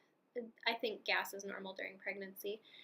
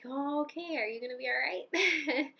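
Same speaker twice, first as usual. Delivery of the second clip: higher-pitched, drawn-up questioning quote; wary fiancé; 4 semitones higher, 4 dB louder than usual. Retold or imitated. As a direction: imitate a partner checking on someone carefully. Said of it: "my fiance looks at me and he's".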